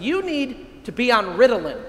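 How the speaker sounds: mock grouchy. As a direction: play the complaining churchgoer for laughs. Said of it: "kind of grouchy guy said it to me".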